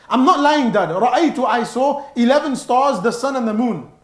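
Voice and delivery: put-on a boy swearing he isn't lying to his father; earnest insistence. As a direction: insist it's the truth. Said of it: "it's like he's saying that I'm not lying".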